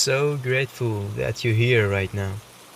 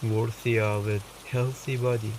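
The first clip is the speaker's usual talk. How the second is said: calm meditation voice with long pauses; softly reassuring meditation guide, unhurried; guided meditation; 10 dB quieter than usual. Acted. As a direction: guide the listener gently, leaving space between phrases.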